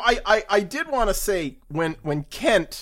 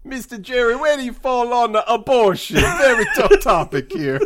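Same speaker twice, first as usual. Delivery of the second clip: bad Italian accent; 3 semitones higher than usual. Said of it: "stereotypical bad Italian accent".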